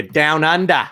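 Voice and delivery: hammed-up, clumsy Australian accent; bad Australian accent. Host joking in a sponsor read, bad Australian accent. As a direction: badly fake an Australian accent. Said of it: "really bad Australian accent".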